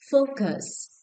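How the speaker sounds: "Focus" with the opening syllable high and stressed; stress on first syllable. Shown as a demonstration. Teacher checking stress answers with class, first-syllable stress on "Focus". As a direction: lean on the "Fo" of "Focus". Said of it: "The first syllable".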